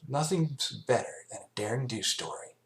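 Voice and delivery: high, cocky tomboy voice; brash Rainbow Dash. Acted. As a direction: brag about the stories.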